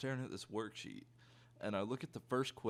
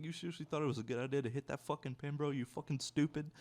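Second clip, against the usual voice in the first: mock outrage, pitch raised, punching the ending; incredulous friend; 6 semitones higher than usual. The speaker berating him over the pen, higher mock-incredulous scolding.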